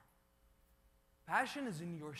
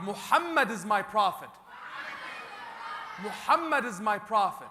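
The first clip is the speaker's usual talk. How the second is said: proud, loud Muhammad is my prophet; with pride; 7 dB louder than usual. Shown as a demonstration. Preacher leading the crowd, proud and loud. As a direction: declare it proudly. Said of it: "Say it with pride".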